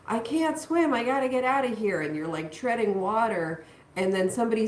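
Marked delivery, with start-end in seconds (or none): 0.1-2.0 high, fast panicked cry; mock panic. Tarot reader voicing a panicking swimmer in water, high and fast. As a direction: blurt it like a drowning swimmer losing it. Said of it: "they're panicking and they're like".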